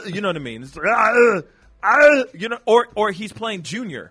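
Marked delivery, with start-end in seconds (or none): 0.8-2.2 garbled high bellow; loud mock action-hero holler; Arnold yell. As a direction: roar wordlessly like a bad impression. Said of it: "Arnold, so".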